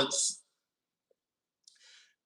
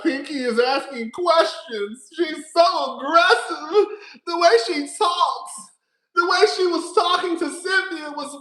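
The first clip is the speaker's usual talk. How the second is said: mock scandalised, slow; hammed-up outrage from prim viewers; sarcastic scandalised fan voice; mocking pearl-clutchers; 4 semitones higher than usual. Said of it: "girls clutching they pearls".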